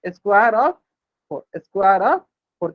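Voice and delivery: teacher drilling the phrase slowly. Shown as a demonstration. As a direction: square of four twice, with pauses between words. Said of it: "समझ में आ गया होगा".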